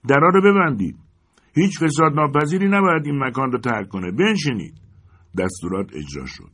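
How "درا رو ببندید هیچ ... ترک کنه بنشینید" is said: higher, louder shouted orders; shouting. Acted. Townsmen shout at the leaving citizens, loud and commanding. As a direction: bark at them to shut the doors. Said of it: "ولی چند نفر فریاد کشیدند".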